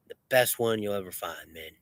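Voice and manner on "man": ordinary delivery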